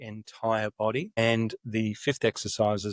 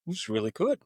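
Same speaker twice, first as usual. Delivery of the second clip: enthusiastic reply; 8 semitones higher than usual. Retold or imitated. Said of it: "I said".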